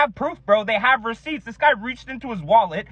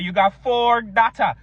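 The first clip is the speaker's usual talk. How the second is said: put-on Jamaican accent; slower than usual. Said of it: "what's up with Jamaicans".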